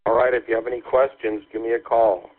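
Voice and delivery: over a walkie-talkie speaker; crackly military radio. Real, not acted. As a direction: voice through a crackly two-way radio. Partner answering over the radio.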